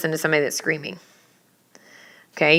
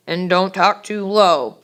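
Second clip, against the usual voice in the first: low-pitched demo; slower than usual. Shown as a demonstration. Teacher showing students what too low sounds like, dropping pitch. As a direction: voice sinking toward the end. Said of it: "highness or lowness of a person's voice".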